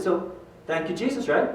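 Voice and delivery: softly leading, seeking agreement; retold coach's prompt, falling at the end; gentle prompting. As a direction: coax him into repeating it.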